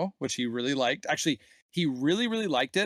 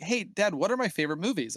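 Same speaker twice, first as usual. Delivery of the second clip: put-on child's voice; 5 semitones higher than usual. Dad voices his young son.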